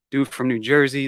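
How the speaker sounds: ordinary delivery, nothing marked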